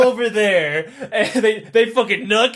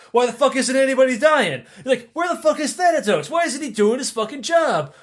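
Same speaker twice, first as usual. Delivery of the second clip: indignant demand; 4 semitones higher than usual. Acted. Gods demand why nobody dies.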